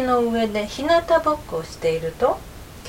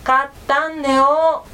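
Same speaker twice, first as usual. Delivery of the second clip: slower mumble through closed jaws; mouth clamped shut; 4 semitones higher, 4 dB louder than usual. A narrator's reading. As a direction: say it without loosening the bite. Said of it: "くわえた口を緩めないように言いました". (口を閉じたまま、ゆっくりもごもご言う狐)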